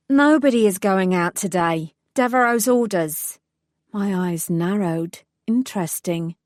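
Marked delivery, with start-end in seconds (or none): 0.1-3.4 gruff woman. Acted. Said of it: "a gruff female voice".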